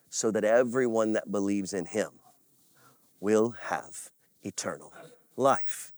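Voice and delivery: soft, low, measured preacher delivery; hushed scripture telling. Real, not acted. Preacher reciting Jesus's words to the congregation, hushed.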